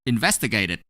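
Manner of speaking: "Investigated" with an extra final syllable, "id"; ED pronounced as "id". Shown as a demonstration. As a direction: sound out the ED in "Investigated" as "id". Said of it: "pronounce E D as it".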